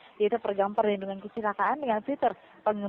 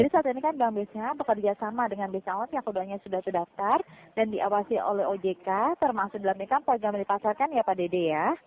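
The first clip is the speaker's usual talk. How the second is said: louder, clearer repeat of the pitch. Real, not acted. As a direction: say it again so he can hear. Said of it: "Saya ulangi kembali".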